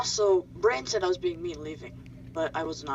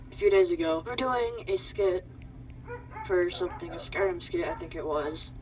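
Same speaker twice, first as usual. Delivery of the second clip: shaky voice. Real, not acted. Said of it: "Oh, my voice is shaking".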